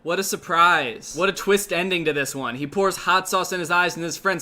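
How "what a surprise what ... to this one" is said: sarcastic. Real, not acted. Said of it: "sarcastic mock surprise".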